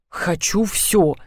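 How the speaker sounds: Хочу всё said slow and soft with a giggle; giggled. A narrator's reading. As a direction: snicker at the silly name Хочу всё. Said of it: "хихикнула я".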